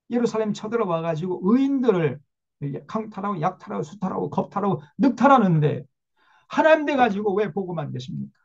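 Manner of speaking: Habakkuk challenging God, growing outrage; protesting prophet. Retold or imitated. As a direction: demand answers of God, building up. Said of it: "막 이렇게 따져요".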